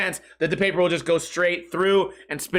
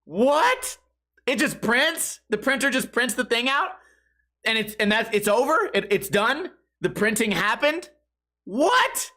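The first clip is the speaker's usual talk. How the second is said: high, rising incredulous questions; hammed-up astonishment, climbing to a squeak; amazed disbelief; 4 semitones higher than usual. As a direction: marvel at a printer that just works. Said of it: "And I said".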